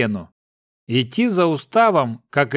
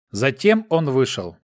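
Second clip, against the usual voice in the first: plain reading voice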